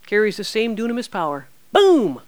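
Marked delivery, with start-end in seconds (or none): 1.7-2.2 loud, high explosive boom. Acted. Preacher showing the power of one syllable, explosive. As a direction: punch it out like dynamite going off. Acts out dynamite going off.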